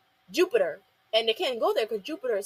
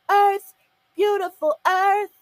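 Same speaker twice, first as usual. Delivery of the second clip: awed admiration; 8 semitones higher, 7 dB louder, slower than usual. Retold or imitated. Characters admiring Earth, quoted.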